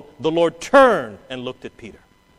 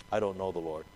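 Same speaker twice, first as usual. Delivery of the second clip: timid mumble; 9 semitones lower, 12 dB quieter, faster than usual. Acted. Timid believer denying quietly.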